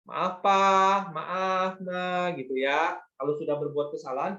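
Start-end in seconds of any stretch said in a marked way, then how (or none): 0.0-2.3 1 polite apology. Shown as a demonstration. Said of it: "kita harus minta maaf ya".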